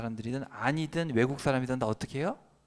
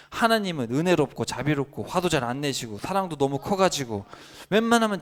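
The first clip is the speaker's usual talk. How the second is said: complaining Jonah; 2 semitones higher than usual. Retold or imitated. Jonah's complaint read as quote. (하나님께 따지듯 크게 항의하는 요나)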